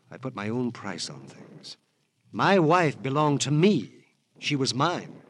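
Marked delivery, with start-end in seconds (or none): 2.3-5.2 possessive outburst. Acted. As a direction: claim her as his own.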